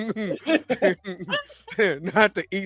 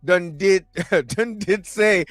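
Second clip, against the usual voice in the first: fake Jamaican accent. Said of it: "your fake Jamaican accent".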